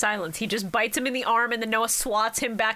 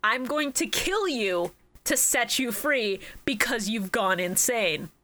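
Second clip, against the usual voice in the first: slow, measured paraphrase; lightly dramatized solemn verdict; grave pronouncement; slower than usual. Retold or imitated. Yami telling Noah he will free him, slow and grave. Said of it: "he's basically saying".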